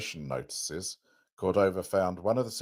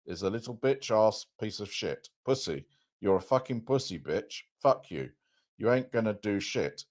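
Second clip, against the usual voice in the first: screaming insults; 4 semitones higher than usual. Retold or imitated. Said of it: "he's gonna start screaming at him".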